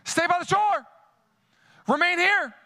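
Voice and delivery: voice of Jesus. Acted. Voicing Jesus's call to abide.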